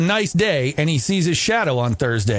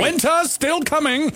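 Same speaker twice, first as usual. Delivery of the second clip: spooky announcer; 12 semitones higher than usual. Pretend. Mock groundhog announcement.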